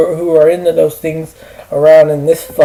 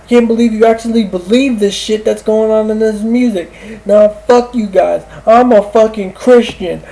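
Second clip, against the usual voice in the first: higher, put-on voice of an outraged Christian classmate; imitated angry rant; 5 semitones higher than usual. Classmate yelling at friends over black metal, imitated angry rant. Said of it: "it was kind of the way he, he was".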